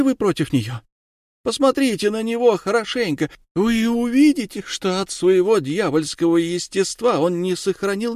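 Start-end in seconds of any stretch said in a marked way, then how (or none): none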